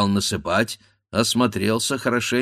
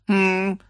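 higher bleating hm; bleated hum; 10 semitones higher than usual. A narrator's reading. The ram echoing, bleating hm. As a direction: bleat a short hm. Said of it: "проблеял баран".

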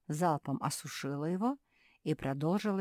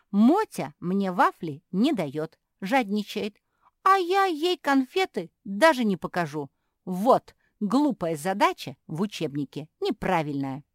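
higher, louder, indignant; sulky complaint; 5 semitones higher, 10 dB louder than usual. Acted. Puppy complaining about Motya, loud and indignant. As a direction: complain hotly about the greedy sister.

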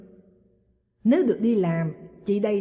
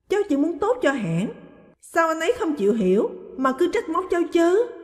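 wailing complaint; 9 semitones higher, 4 dB louder than usual. A narrator's reading. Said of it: "Ân vẫn chưa thôi lu loa".

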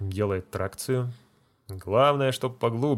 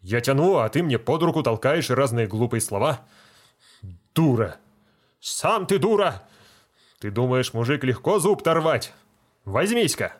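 angry retort; 3 semitones higher, 4 dB louder than usual. Acted. Feldsher squabbling with deacon.

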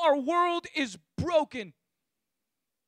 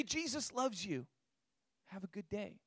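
softer, breezy mock reassurance; mock shallow blessing; 9 semitones lower, 14 dB quieter than usual. Preacher mocking a shallow feel-good gospel, softer breezy mock. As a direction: toss it off lightly, softer, as if it costs nothing.

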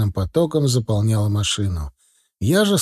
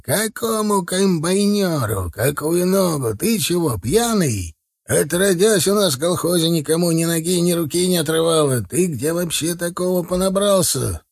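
higher, indignant questioning; narrated shouting; 6 semitones higher than usual. A narrator's reading. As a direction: challenge him with lifted pitch, not volume. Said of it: "закричал Николаенко". (возмущённо, повышенным тоном)

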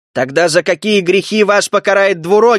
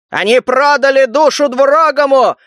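crowd outcry; 6 semitones higher than usual. A narrator's reading. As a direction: call out an accusation, pitched up. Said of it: "выкрикнули из толпы". (высокий обличающий выкрик)

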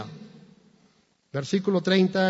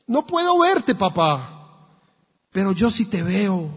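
put-on scared child shouting; 2 semitones higher, 5 dB louder than usual. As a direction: call down scared, unable to see. Child and father shouting in fire.

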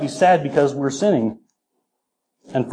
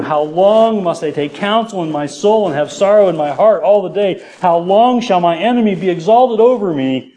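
raised, louder lament from scripture; impassioned psalm reading; 5 semitones higher, 4 dB louder than usual. Acted. Preacher reads David's lament to the congregation, impassioned. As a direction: cry out the psalm with rising pitch.

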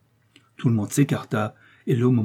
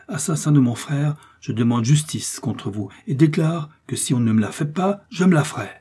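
a lord's stern accusation, raised and building; accusing nobleman; 3 semitones higher, 3 dB louder than usual. Acted. Lord de Winter denounces Milady before the judges, stern and rising. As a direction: hurl each charge like a verdict.

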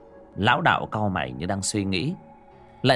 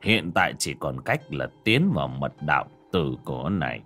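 put-on old master voice; 5 semitones lower than usual. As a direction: speak like a weary old sage. Old Taoist master speaks.

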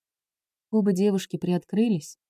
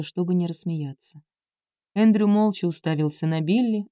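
usual speaking voice

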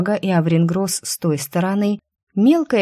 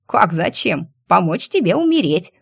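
squirrel voice. Acted. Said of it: "заявила белка".

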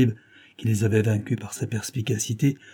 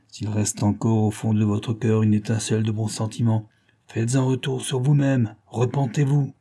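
solemn voice. Acted. Detective urging the dying man to repent, solemnly. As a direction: speak as if before a deathbed. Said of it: "dit-il d'une voix solennelle".

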